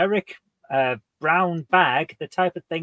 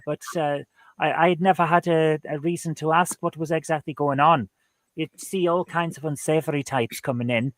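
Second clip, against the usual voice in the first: put-on Welsh accent. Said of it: "just gonna keep going with it".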